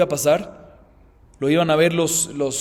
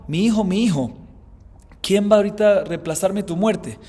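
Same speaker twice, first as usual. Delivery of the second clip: a touch of a grieving father, a little higher and louder; mournful cry; 5 semitones higher, 3 dB louder than usual. Retold or imitated. Teacher voicing David mourning Absalom, mildly grieving. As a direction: lightly voice David weeping for his son. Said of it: "David se puso a llorar y dijo".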